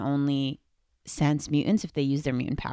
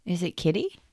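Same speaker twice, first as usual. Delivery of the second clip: secret whispered guess; 4 dB quieter than usual. Real, not acted. Whispered guess about the clue.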